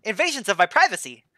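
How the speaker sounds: high, bright-eyed newborn blob; high innocent ooze creature voice; high goofy blob voice. Acted. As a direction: chirp it like a friendly new creature. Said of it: "He's like".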